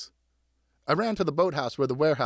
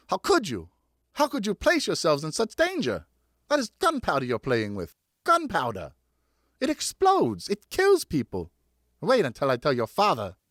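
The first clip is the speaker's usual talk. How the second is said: distressed scolding; 3 semitones higher than usual. Acted. Mother scolds dangerous play.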